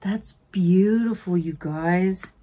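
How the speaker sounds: hushed admiring whisper. Real, not acted. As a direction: whisper it like a secret. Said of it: "whispered aside".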